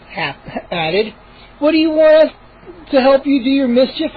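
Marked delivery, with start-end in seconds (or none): 1.6-4.2 indignant cry. A narrator's reading. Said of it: "I cried".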